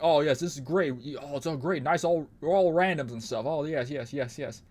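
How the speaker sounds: hammed-up mockery of cocky survivors; mock cocky gloating. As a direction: sneer it out like a smug teammate showing off. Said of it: "they're being cocky is like".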